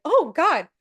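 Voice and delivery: horrified, beg to stop the tape; mortified cry. Retold or imitated. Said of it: "they're like".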